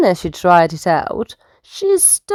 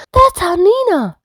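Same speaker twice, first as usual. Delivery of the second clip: mild shout; 12 semitones higher, 4 dB louder than usual. Acted. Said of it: "shouted the dolphins".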